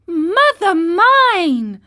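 high, loud, slow cry of fright; terrified cry. A narrator's reading. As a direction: cry out scared to death. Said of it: "cried the marionette".

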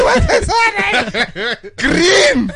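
very high, loud call-out; high mock heckler shout; heckling crowd. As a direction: yell it from the audience. Acting out crowd calling out surname.

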